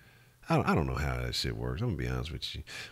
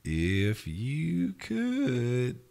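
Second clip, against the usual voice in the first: high, very drawn-out croon; long, lingering high-pitched wish; wishful exclamation; 9 semitones higher, much slower than usual. Real, not acted. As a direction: draw every word out up high. Repeats the wish, stretched high.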